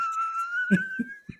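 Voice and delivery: high-pitched laughing; real laugh. Real, not acted. Storyteller after joke about stolen PS five, real high laugh. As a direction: laugh freely at your own punchline.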